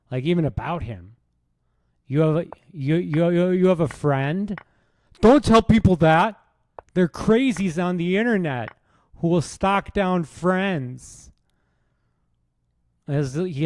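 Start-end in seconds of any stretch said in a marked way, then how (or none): 2.1-11.3 high-pitched indignant comedian parody; mock a worked-up comic, pitched up and rising to a loud outburst; Bill Burr. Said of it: "that's how you sound, Bill Burr".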